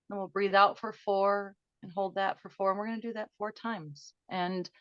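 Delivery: calm them down as you count the breaths; guided breathing. Acted. Leads breathing exercise.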